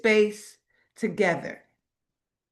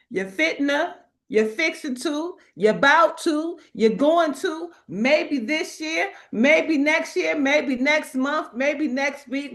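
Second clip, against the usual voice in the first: mock excuses; 6 semitones higher than usual. Building list of procrastination excuses.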